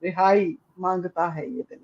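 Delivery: poetry recitation, dropping gently on the last line; reading a poem aloud. Shown as a demonstration. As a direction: recite the ghazal couplet, measured and soft at the close. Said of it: "Go ahead".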